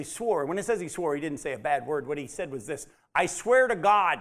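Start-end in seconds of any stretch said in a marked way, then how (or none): 3.1-4.2 Peter swearing. Retold or imitated. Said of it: "That's what he actually said".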